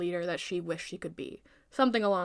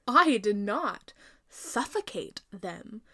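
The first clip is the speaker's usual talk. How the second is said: slow, emphatic denial; indignant denial; much slower than usual. Acted. Queen slowly denying the charge, indignant. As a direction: lean on every word, offended.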